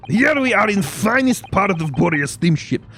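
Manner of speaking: self-important Russian crewman; Russian accent. Acted. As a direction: declare it forcefully with a thick Russian accent. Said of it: "Russian accent when I'm trying to do that voice".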